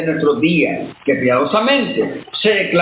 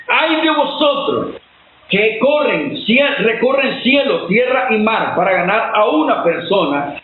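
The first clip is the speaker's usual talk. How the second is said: stern condemnation. Retold or imitated. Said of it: "Cristo condenó fuertemente".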